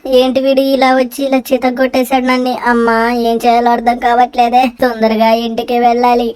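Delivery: hammed-up injured whining; wailing complaint. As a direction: wail to the kids after the beating. Victim wailing after beating.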